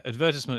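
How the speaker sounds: advertisement with stress on the second syllable, ad-VER-tis-ment; British advertisement. Shown as a demonstration. Brit showing his own advertisement, stress on VER. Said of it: "is what I would say".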